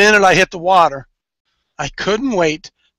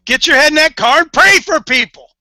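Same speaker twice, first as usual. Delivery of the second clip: urging call; 7 semitones higher, 4 dB louder than usual. Retold or imitated. Coach urging men to pray.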